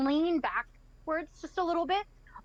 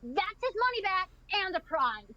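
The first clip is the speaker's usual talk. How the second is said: higher, eager demand; bubbling over, pitched up; excited insistence; 5 semitones higher than usual. Acted. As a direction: speak up excitedly for a friend. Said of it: "just in pure excitement".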